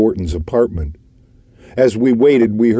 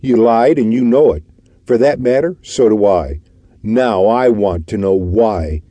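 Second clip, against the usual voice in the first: blunt; 2 semitones higher, 3 dB louder than usual. Acted. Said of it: "began McKelvey, going straight to the point".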